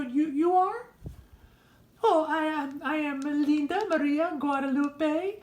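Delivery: loud, proud Linda reeling off her names; loud soap-opera fiancée voice; brassy Linda voice. Acted. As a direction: announce yourself grandly, names slow. New character Linda introduced.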